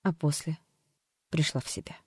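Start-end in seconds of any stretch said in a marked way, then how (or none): none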